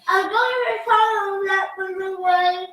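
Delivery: talking with a mouthful of food; mouth full. Real, not acted. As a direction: speak around a bite of food. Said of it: "while you have your mouth full".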